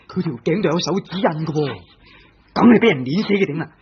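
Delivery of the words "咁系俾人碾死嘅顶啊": alarmed realization. Acted. Realizes she was strangled.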